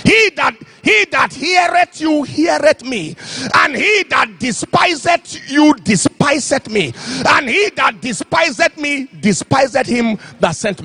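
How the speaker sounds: slow, ringing scripture quote; preached scripture. Acted. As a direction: proclaim it like a preacher. Quoting scripture with force.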